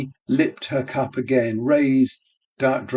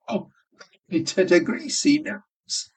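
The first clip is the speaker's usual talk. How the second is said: higher, laughing yell; yelling with laughter; 9 semitones higher than usual. A narrator's reading. Barmaid yelling with glee about the greasy nose. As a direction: shriek it out between laughs. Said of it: "she yelled, shrill with deep laughter".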